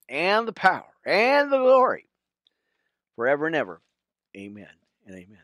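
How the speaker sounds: steady reverent reading of the Lord's Prayer; prayer recitation. Real, not acted. Pastor leading viewers in the Lord's Prayer, reverent. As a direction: pray it measured, rising on the glory.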